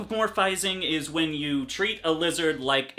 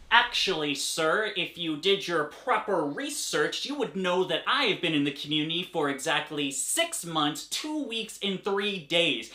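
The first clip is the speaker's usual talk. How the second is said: Facebook expert lecturing a critic, smug; smug know-it-all; 3 semitones higher than usual. Acted. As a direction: correct him with prissy pride. Skit of pompous Facebook expert.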